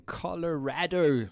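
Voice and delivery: Colorado with RAD punched in the middle; playful mispronunciation. Real, not acted. Host jokily renames the state in his intro, playful mispronunciation of Colorado. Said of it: "changing the name of the state".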